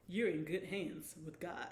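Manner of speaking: a hint of a deep insurance-ad spokesman; commercial spokesman impersonation. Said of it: "my impersonation of the Allstate".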